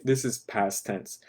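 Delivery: quick whispered aside. Real, not acted. Teacher whispering a grammar reminder to students. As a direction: drop to a whisper for the note.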